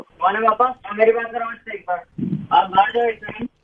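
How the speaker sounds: the fed-up newlywed, pitched a little down; lightly voiced young groom.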